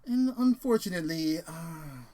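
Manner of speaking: lightly voiced prim robot, high and polite; a hint of a cheerful killer butler droid; mild imitation of a polite British robot; polite evil droid. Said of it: "C three P O with his really polite ... British accent".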